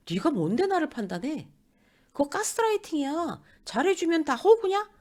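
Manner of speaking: indignant, high-pitched comeback, building; quarrelsome retort. Acted. Brooding colleague hits back in a fight, mock indignant. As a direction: fire back as in an acted argument. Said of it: "뭐 이러면서 또 싸워요".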